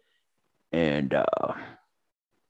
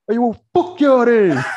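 high, slow, laughing mock yell; hammed-up hurt shout at the women; mock offended Kyle; 8 dB louder than usual. Kyle yelling out the car window, high and slow. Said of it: "he's like".

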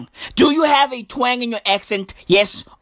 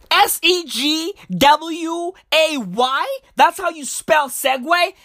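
raised pitch, querying each letter; incredulous questioning; 4 semitones higher than usual. Real, not acted. Questions misspelling in disbelief.

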